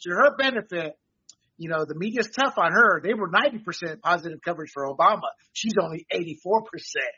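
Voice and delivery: dry mock sympathy; sarcastic. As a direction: say it deadpan, tongue in cheek. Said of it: "I'm being sarcastic, people".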